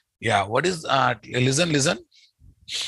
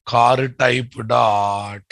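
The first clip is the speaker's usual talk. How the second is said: slow dictation; 2 semitones lower, much slower than usual. Shown as a demonstration. Dictating code slowly to class.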